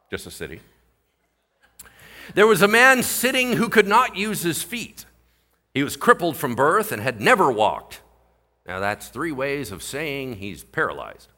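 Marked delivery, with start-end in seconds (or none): 2.4-8.0 raised, projected Bible reading; scripture reading. Acted. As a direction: read the verse out to the congregation. Reads scripture aloud.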